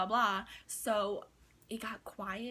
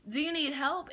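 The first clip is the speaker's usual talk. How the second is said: higher, eager innocent offer; innocent and sweet; 5 semitones higher, 3 dB louder than usual. Retold or imitated. Cashier asking the customer again, higher, sweetly innocent. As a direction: lift the pitch like a sweet, helpful cashier. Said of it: "Innocent, sweet little me".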